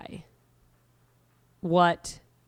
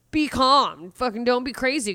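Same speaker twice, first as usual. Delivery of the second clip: mock scold; 6 semitones higher, 5 dB louder than usual. Calming inner voice voiced.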